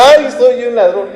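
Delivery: lamento de ladrón levemente dramatizado, más agudo; lamento fingido. Acted. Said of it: "no llora". (lamento fingido de ladrón arrepentido)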